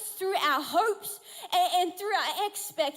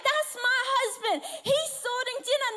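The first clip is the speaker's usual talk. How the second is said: high, excited brag; proud boasting; 6 semitones higher than usual. Retold or imitated. Wife bragging about her husband, excited and proud. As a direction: gush proudly, pitched up.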